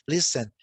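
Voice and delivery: Listen said as lis-en, no T sound; silent T in listen. Shown as a demonstration. Teacher modelling English for Brazilian students, Listen with silent T. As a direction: drop the T in Listen, say lis-en clearly. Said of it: "Não tem o T, não fala, é mudo".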